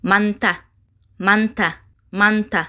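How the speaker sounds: "Манта" evenly, with a falling end; pronunciation demo. Shown as a demonstration. Teacher has learners pronounce together, "Манта" modelled with a fall. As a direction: model "Манта" three times with pauses. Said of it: "Якҷо талаффуз мекунем".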